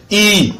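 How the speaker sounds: I held long, then falling; sustained I, as a demonstration. Shown as a demonstration. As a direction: draw out the vowel I to double length. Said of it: "Quand on double".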